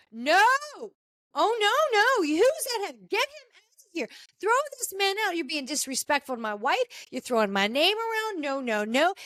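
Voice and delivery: angry husband yelling, voice up high; husband shouting to have a guest thrown out, high-pitched and heated. Retold or imitated. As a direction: play the furious husband throwing a man out. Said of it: "He's getting heated".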